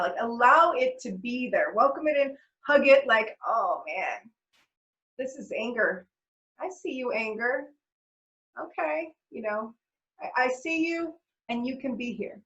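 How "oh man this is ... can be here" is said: soft, gentle voice welcoming the anger; gentle self-talk. Retold or imitated. Talking to her own anger, soft and gentle. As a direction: speak kindly to the anger as if to a friend.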